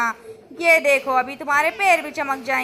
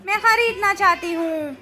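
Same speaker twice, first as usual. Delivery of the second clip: pleading; 3 semitones higher than usual. Acted. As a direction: beg to be allowed to buy it. Begs to buy the painting.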